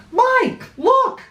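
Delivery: high excited yell; loud, high "Mike, look!". Acted. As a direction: call out to your friend, amazed. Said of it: "I yelled".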